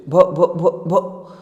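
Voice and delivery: stuck on the first syllable, voiced as the child; a stammering girl trying to say her name. Shy girl stammering her name to the teacher. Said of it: "She could stammer no further than that".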